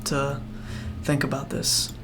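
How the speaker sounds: soft, hushed and kind; calm the stressed child with quiet patience; gentle reassurance. Acted. Duros telling the upset child to take time, hushed and kind. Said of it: "Duros says".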